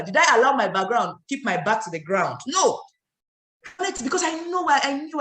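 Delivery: rousing speaker on a stage; motivational speaker. Shown as a demonstration. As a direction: preach it like a life coach. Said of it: "let me talk like a motivational speaker".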